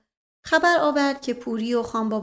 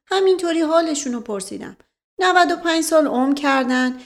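raised, playful aristocrat; teasing gentleman, lightly higher; sly nobleman voice; 4 semitones higher, 5 dB louder than usual. Acted. Asadollah Mirza voiced again. (صدای اشرافی شوخ)

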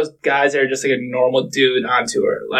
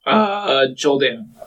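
voice crack; slower than usual. Real, not acted. Podcast guest naming his caddy pick, voice cracking. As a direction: let the voice crack at the start. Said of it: "That was a big voice crack".

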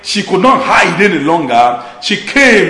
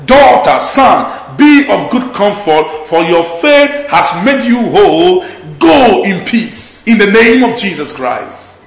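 reassuring blessing; slower than usual. Real, not acted. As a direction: speak comfort to the discouraged, slowly. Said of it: "Can I speak the same words to somebody".

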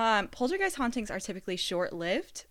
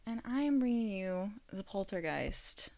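odd phrasing; 5 dB quieter than usual. Pretend. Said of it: "I don't know why I said it like that".

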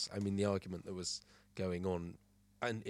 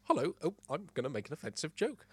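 higher-pitched comedian impression; Jimmy Carr; 6 semitones higher than usual. Host answers as the comedian they called, mock impression. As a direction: lightly put on a comedian's chirpy greeting.

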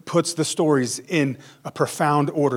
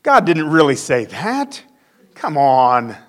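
slow, louder, dismissive tempter; scoffing tempter; 2 semitones higher, 6 dB louder, slower than usual. Retold or imitated. The serpent tempting Eve, slow loud scoff. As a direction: brush God's word aside with scorn. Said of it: "He did the same thing with Eve".

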